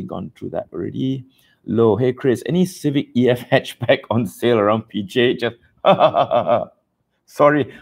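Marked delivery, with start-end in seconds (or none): 5.7-7.7 light laugh into an apology; kind gentle laugh. Real, not acted. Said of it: "I'm not laughing at you".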